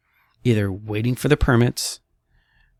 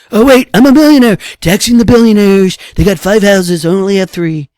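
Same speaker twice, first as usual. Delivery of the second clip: much higher, louder put-on rich person whine; mock whiny millionaire; 10 semitones higher, 13 dB louder than usual. Mocking the rich complaining about taxes in a high whine. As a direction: squeal it like a spoiled millionaire crying poor. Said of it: "I can't do good impersonations anymore".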